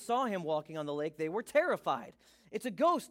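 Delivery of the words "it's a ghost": mildly frightened cry, higher and louder; fearful cry, narrated. A narrator's reading. Disciples seeing Jesus on the lake, a touch of fear. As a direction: read it as a startled cry. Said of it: "and cried out in fear".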